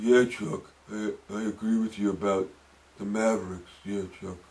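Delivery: low, deep, muffled, quiet, flat monotone mumbling. Imitating Shaq answering Chuck on the TNT set: mumbling monotone Shaq impression. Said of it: "What, Shaq?".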